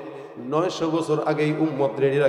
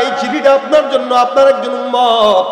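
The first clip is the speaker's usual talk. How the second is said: impassioned preaching; 9 semitones higher, 9 dB louder than usual. Retold or imitated. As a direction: draw out the address like a preacher. Preaches as the companion. (টেনে টেনে ওয়াজের সুরে)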